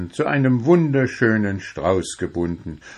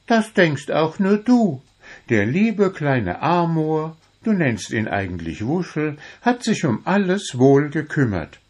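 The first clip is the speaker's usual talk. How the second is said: much higher, playful goblin friend; Wuschel, teasing; 7 semitones higher than usual. A narrator's reading. Wuschel asks Puh back about the roses, high and teasing. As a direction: ask it back with a grin.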